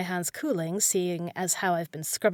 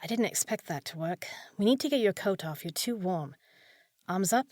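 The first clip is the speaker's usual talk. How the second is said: usual speaking voice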